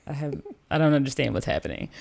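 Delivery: low, soft, halting confusion; puzzled friends. Retold or imitated. Retelling the friends' confused reaction.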